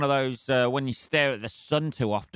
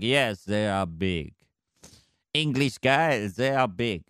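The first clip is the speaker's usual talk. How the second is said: slow, lightly done mock French accent; a bulldog bragging in a dodgy French accent; hammed-up French accent, barely put on; slower than usual. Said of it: "dodgy French accent".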